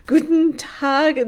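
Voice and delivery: the full extent of her German; slow, careful "Guten Tag"; German greeting. Shown as a demonstration. Greeting viewers in slow "Guten Tag". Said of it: "That's my German".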